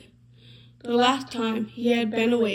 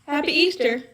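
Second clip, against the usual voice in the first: bright greeting cried out, higher pitched; all the animals cheering their welcome; joyful chorus greeting Badger; cheerful cry; 4 semitones higher than usual. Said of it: "cried the animals".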